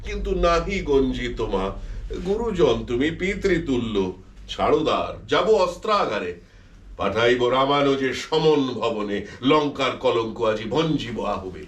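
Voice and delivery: বীর রসে আবৃত্তি; heroic poem recitation. Acted. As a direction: declaim it like an epic hero. Recites Michael's blank verse.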